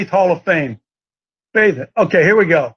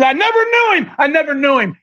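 acted denial; 5 semitones higher than usual. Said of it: "he says".

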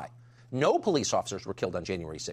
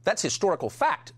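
mocking quote; 7 semitones higher than usual. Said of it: "says Joe Biden".

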